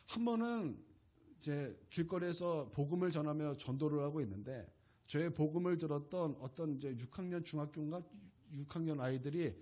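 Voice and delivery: ordinary delivery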